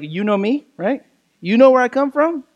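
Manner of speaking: a hint of Italian wise-guy questioning; light Italian-style questioning. Shown as a demonstration. Preacher reading Jesus's words as a question, lightly Italian. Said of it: "maybe there's a little Italian in there".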